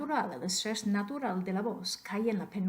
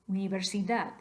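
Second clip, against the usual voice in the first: Universidad stressed on the last syllable, "dad"; final-syllable stress. Shown as a demonstration. Teacher tests rule two, Universidad stressed on last syllable. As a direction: lean on "dad" at the end of Universidad. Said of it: "más fuerte en la última sílaba".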